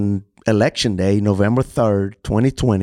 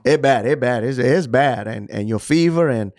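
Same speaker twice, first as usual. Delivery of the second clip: imitating Indian accent. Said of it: "this is how he talked".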